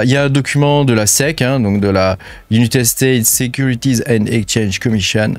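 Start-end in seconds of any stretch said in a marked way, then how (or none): 2.5-5.3 French speaker in a showy American accent; mock American English accent. Shown as a demonstration. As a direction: say it like an American, proudly. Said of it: "T'as vu mon accent? Je le travaille grave".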